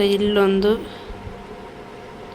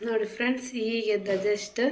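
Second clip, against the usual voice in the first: hushed; 10 dB quieter than usual. Real, not acted. Child just waking beside her.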